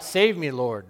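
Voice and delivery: a loud, desperate call for help; cried out. Retold or imitated. Peter sinking in the wave, crying loudly for help. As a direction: shout for rescue while sinking. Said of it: "I cried out".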